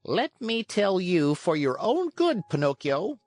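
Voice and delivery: high-pitched but composed; calm cricket. A narrator's reading. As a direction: advise calmly in a high little voice. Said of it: "in his calm voice".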